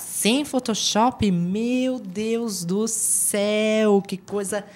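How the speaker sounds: mock astonishment.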